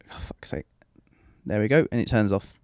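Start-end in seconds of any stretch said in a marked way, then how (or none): 0.1-0.6 whispered curse under breath; muttered. Real, not acted. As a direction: hiss it out, fed up.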